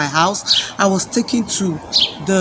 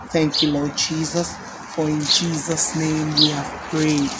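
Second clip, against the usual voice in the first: intercessory prayer. Acted. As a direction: pray over the grieving, then sink away. Leads a congregational prayer.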